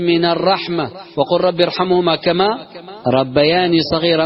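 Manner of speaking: Quran recitation. Acted. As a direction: recite it with measured reverence. Recites a long Quran verse.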